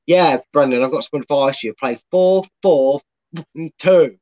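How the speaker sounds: playful Scottish manager impression; Scottish accent. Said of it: "I'm just pretending he's Scottish now".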